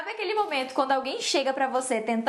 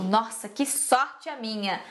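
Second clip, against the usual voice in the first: slow, mildly ironic self-pity; dry irony at your own bad luck; sarcastic; 3 semitones lower, slower than usual. Shown as a demonstration. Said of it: "é bastante sarcástica essa frase". (sarcasmo leve, arrastado)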